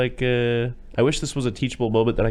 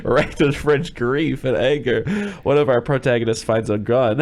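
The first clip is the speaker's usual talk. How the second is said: slow, louder-edged film-summary read; synopsis read; 3 semitones higher, 4 dB louder, slower than usual. Acted. Host retaking a flubbed film intro, deliberate synopsis read. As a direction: pick the synopsis back up, slowly and deliberately. Resumes the synopsis after flub.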